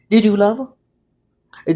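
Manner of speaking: slow, weighted question. Acted. Wife asking husband about the affair, slow and restrained. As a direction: ask it slowly, holding back.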